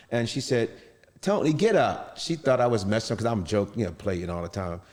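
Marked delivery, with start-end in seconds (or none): 1.2-2.2 higher-pitched mock scolding, as his wife; imitating exasperated wife. Wife to husband fallen from bed, thinking he's joking, exasperated. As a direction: voice a wife's impatient order. Wife urging him up off floor.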